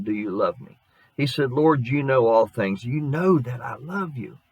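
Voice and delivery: lightly dramatized scripture read. Acted. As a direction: read the gospel passage to the congregation. Reads the scripture passage aloud.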